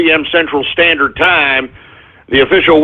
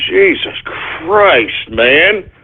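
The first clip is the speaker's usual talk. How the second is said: exasperated; 2 semitones lower, much slower than usual. Real, not acted. Host fed up with dog.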